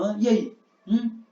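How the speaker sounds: taunting, pushy questions; provoking. Shown as a demonstration. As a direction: needle him for an answer. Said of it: "Sabe quando você tá provocando a pessoa?". (provocando, insistente)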